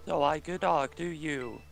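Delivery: Stephen Hawking voice. Pretend. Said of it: "I'll try to do my, uh, my Stephen Hawking".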